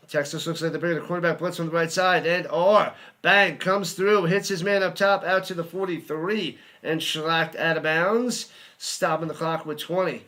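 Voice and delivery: quick, rising play-by-play call that surges on the hit; live play-by-play. Acted. Fan calling the Michigan drive for his viewers, live play-by-play. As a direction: call the action as it happens.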